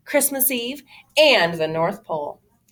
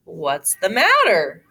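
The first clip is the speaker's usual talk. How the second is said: slow, louder, gentle question; kindly Santa; 5 dB louder, slower than usual. Acted. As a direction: ask like a jolly old elf. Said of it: "Santa said".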